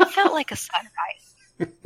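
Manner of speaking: slow, dreamy, lightly voiced Magni; a hint of a solemn Magni; Magni's voice. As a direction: draw it out like a mystic dwarf. Magni voiced in retold game scene.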